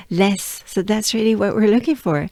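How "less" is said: less in a French accent; French-accented less, clearly modelled. Shown as a demonstration. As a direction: say less as a French speaker would. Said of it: "with a French accent".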